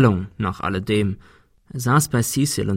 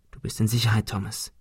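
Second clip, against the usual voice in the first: softer, hushed reassurance; soft whisper; 6 dB quieter than usual. Acted. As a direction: murmur it gently to a dazed friend. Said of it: "flüsterte Ben".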